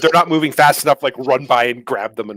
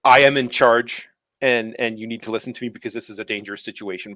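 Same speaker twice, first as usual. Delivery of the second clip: commanding voice. Retold or imitated.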